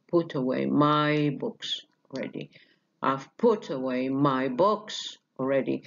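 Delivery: slow demo rhythm, stressing put and books; wave-like rhythm. Shown as a demonstration. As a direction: beat out put and books in waves. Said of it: "آه، عالية".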